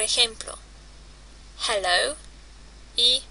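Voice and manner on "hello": "hello" with an audible H; pronounced English H. Shown as a demonstration. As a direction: breathe out the H at the start of "hello". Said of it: "La H se pronuncia como la J".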